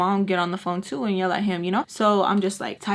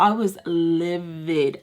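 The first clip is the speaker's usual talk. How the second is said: emphatic fury; 3 semitones lower, slower than usual. Real, not acted. Recalling how furious she was.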